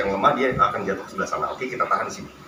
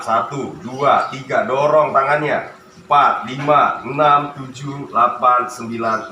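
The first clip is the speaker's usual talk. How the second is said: counting workout reps; 5 dB louder, slower than usual. Real, not acted. Counting reps during exercise.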